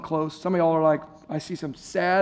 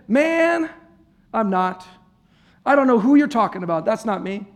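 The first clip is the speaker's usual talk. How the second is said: heated denial; 3 semitones higher, 4 dB louder than usual. Acted. Peter denies again.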